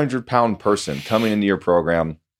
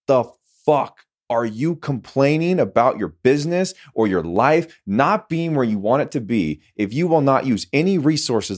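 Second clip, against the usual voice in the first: heated; 2 semitones higher than usual. Real, not acted. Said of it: "I'm heated right now".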